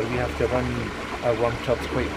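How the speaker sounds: speaking up over machine noise. Real, not acted. Touring noisy still house.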